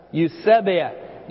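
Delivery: "Eusebeia" slowly for a group to repeat, stress on "seb"; pronunciation model. Shown as a demonstration. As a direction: lead the room slowly through "Eusebeia", leaning on "seb". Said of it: "One more time".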